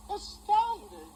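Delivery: drawn-out astounding. Acted. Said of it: "Did you say anything besides astounding".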